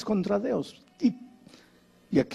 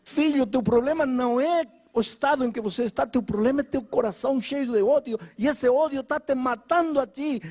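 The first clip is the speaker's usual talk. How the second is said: echoing pastor's voice; 7 semitones higher than usual. Retold or imitated. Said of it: "sua voz não saía do meu ouvido".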